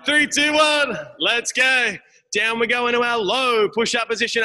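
high, loud countdown shout; rally the class to start; coach calling out. Real, not acted.

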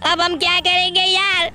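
a stuttering, scared friend stumbling over every first sound; nervous stammering sidekick. Acted. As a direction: get stuck on the first letter, lightly scared. Kanjo stammers at the gang. (डरा हुआ हकलाता दोस्त)

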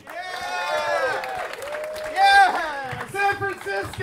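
high-pitched rallying yell; hyped crowd greeting. Real, not acted. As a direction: hype up the crowd, voice way up.

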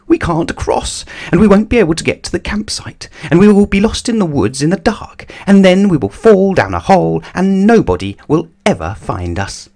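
high-pitched panicky rush of worries; panicked shrieking. A narrator's reading. Mister Jelly imagining disaster at the river, panicked shrieking. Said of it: "shrieked Mister Jelly".

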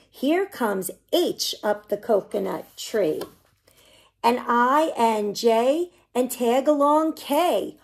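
put-on lively storybook read-aloud for little kids; reading to children. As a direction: bounce the rhymes along like a picture-book reading. Reads picture book to children.

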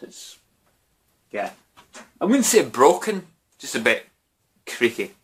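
slurring a little after drinks. Real, not acted. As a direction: talk loose and tipsy. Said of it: "It's a drunken vlog".

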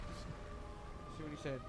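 slow breathy whisper. Real, not acted. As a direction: whisper it to yourself slowly. Reading a friend's snap.

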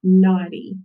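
"naughty" ending on a clear long E; long final E. Shown as a demonstration. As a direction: say "naughty" with an ee sound at the end. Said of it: "makes a long E sound".

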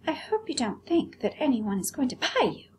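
high prissy doll voice; haughty doll, very high; vain china doll. Acted. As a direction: look down your nose at the rabbit.

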